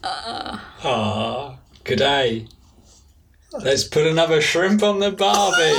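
hammed-up Aussie accent; Australian accent. Podcaster given Australian as a forfeit, Australian accent. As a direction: put on a stereotyped Australian accent.

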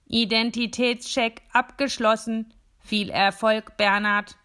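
booming tinny speaker voice. Acted. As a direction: sound like a small metal speaker. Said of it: "dröhnt die Stimme". (blechern dröhnende Lautsprecherstimme)

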